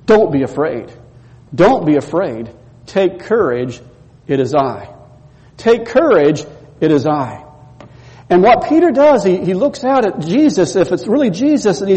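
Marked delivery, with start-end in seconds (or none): 0.0-7.5 lower, calm and gentle; simple reassurance. Retold or imitated. Jesus reassuring frightened disciples, calm and lower. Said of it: "he says to them very simply".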